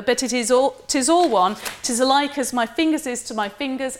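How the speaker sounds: lightly Welsh, lilting Shakespearean soldier; Welsh accent. Acted. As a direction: read it as a Welsh captain. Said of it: "I believe, in a Welsh accent".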